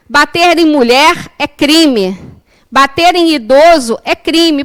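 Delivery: slow, emphatic parallel statements; quoted declaration. Retold or imitated. Speaker quotes a psychologist's post, slow emphatic declaration. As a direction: lay out each case deliberately. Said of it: "um post dela falando assim".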